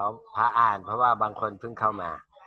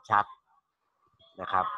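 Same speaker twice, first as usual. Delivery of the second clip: slow, carefully spaced words; slow and clear; 2 semitones lower, slower than usual. Shown as a demonstration. Teacher showing students how to speak clearly, slow and deliberate. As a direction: draw each syllable out so students hear it. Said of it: "เราพูดช้าๆเหมือนเขา".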